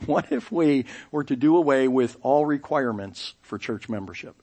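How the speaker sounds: chuckling as you repeat the question; can't keep a straight face at the idea; laughing through it. Retold or imitated. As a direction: repeat the line while laughing in disbelief. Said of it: "Our pastor said".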